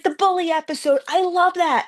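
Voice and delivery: very high, gushing fangirl voice; imitated young girls. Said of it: "little girls came up to me".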